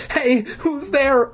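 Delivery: high, slow startled shout; stunned angry cry. Acted. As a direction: call out shocked and angry. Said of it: "I cried in stunned anger".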